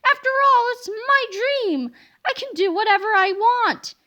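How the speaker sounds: giddy teacher. Acted. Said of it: "cried Miss Anthrop".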